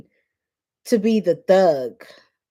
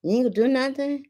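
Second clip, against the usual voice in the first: faster, higher, pushier taunt; egging him on, quick and sharp; goading taunt; 6 semitones higher, faster than usual. Retold or imitated. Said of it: "she was like".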